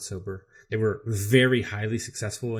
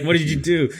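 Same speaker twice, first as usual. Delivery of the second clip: high, loud imitation of dismay; mimicked alarmed questioning; mock shocked reaction; 7 semitones higher, 8 dB louder than usual. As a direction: exclaim as if appalled, playfully exaggerated. Acting out their shocked reaction.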